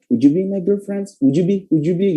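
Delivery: "would you be" run together as "wujubi"; compact, joined "would you be"; short native linking. Shown as a demonstration. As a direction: squeeze "would you" into "wuju". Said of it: "lebih cepat karena dia lebih, lebih singkat".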